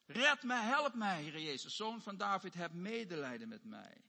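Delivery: cry of distress. Acted. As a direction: call out for rescue, then fall away pleading. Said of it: "Die roept in zijn nood". (roepend in nood, smekend)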